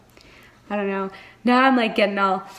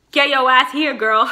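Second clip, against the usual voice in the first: loud, higher summons; calling someone over; 4 semitones higher, 7 dB louder than usual. Acted. Reader demands absent Nesta join the story, calling out loudly. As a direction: holler for her to show up.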